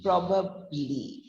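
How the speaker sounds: "probably" as PROB-ub-lee, dropping on ub; low UB syllable. Shown as a demonstration. Teacher breaking down probably, falling note on UB. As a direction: let the middle of "probably" fall. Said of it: "The U B sound is going on a low note".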